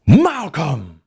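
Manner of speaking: a loud, high call over the PA; thundering shout through the speakers; booming shout. Acted. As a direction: bellow his name like the voice of God. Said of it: "shouted Phil D through the P A system".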